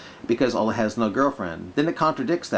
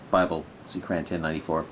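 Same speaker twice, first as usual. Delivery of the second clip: lightly put-on Arabic accent; quick, low Arabic-accented read; 9 semitones lower, 5 dB quieter, faster than usual. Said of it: "Plus doing mock Arabic accent".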